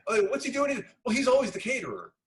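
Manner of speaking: casual it's fine voice; mock nonchalant producer. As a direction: lightly play the shrugging local. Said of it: "retold exchange".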